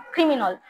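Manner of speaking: "ক্রিমিনাল" said as "khrimi-nawl"; aspirated k, final awl. Shown as a demonstration. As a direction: puff the first k of "ক্রিমিনাল", end on awl. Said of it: "খ এর মতো উচ্চারণ করো".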